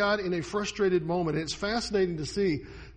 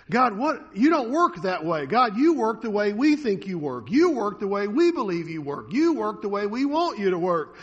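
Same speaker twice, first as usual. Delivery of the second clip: louder, higher insistent complaint; indignant protest; 3 semitones higher, 6 dB louder than usual. Retold or imitated. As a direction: push back at God, stressing you. Mocking the people's protest to God.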